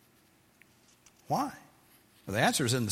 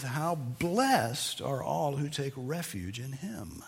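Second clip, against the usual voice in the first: solemn reading; 3 semitones higher, slower than usual. Acted. Psalm's ending, read solemnly.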